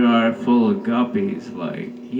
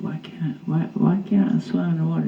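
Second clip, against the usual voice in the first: higher, fast, whiny protest; mock indignant question; 4 semitones higher, 4 dB quieter, much faster than usual. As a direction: protest like a child denied. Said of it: "I said".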